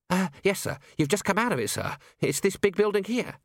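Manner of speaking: high-pitched, hesitant underling; puzzled but deferential to a superior; bemused young constable. Acted.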